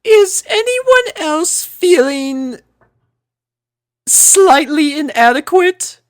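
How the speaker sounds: high, slow, self-conscious lady voice; Rarity. A narrator's reading. Rarity asking friends, high slow self-conscious lady voice. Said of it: "Rarity asked".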